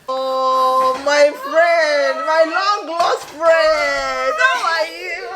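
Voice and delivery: hammed-up reunion; mock grand greeting. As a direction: greet the baby like a long-lost pal. Greeting the baby theatrically.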